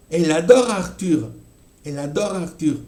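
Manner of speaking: Elle adore Arthur todo ligado como un bloque; enchaînement. Shown as a demonstration. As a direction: une cada consonante final con la vocal siguiente. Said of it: "haciendo ese enchaînement". (Elle adore Arthur en un solo bloque, sin pausas)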